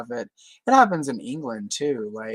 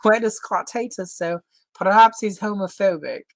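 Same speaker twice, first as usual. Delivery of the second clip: cartoon Canadian voice; 6 semitones higher, 5 dB louder than usual. Quoting Terrence and Phillip cartoon.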